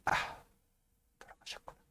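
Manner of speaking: breathless whispered realization; hushed dawning grief; stunned hush. Retold or imitated. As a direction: let it slip out under your breath. Karl learns father died.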